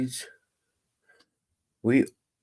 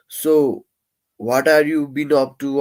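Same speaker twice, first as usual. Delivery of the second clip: loud casual greeting called out; half-shouted friendly opener; mock shout; 4 semitones higher, 4 dB louder than usual. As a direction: call out to a room of strangers to break the ice. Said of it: "just shouting at first and saying".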